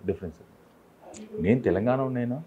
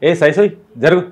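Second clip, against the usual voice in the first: higher, louder rustic call of "ఏ సైసోయ్"; village call-out; 8 semitones higher, 12 dB louder than usual. Retold or imitated. Host imitating a rustic Telangana call to stop, loud. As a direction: shout it across the yard like a villager. Calling someone in village slang.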